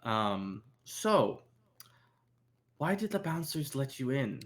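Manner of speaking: measured club owner with deliberate pauses; guarded club owner. Acted. Club owner questions unwelcome visitors about the bouncers, guarded. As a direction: make the blunt warning in unhurried phrases. Game master plays Yuri.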